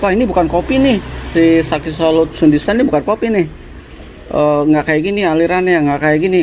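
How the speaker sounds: mock coffee snob. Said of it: "ya udah, nggak usah menjadi".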